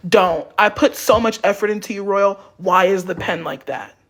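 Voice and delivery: sweet-toned scolding of a hotel clerk; passive aggressive boss. Retold or imitated. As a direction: nag kindly, but make it sting. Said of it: "this is exactly how she would talk to me".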